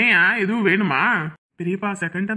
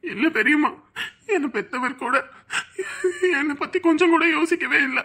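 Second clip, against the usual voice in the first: tearful; 4 semitones higher than usual. Acted. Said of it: "எதுக்கு அழுற?".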